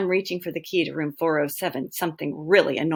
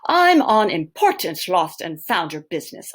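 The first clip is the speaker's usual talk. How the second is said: slightly posh, louder retake; poshest voice; 4 dB louder than usual. Acted. Teacher retries the boy's posh bluff to the manager. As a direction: try the posh voice again lightly. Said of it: "I say in my poshest voice".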